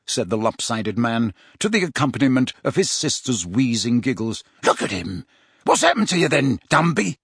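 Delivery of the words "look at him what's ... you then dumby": mocking. Amycus mocking.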